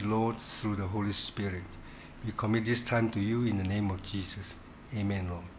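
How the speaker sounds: leading the class in a hushed prayer before study. Real, not acted. Opening prayer before the lesson.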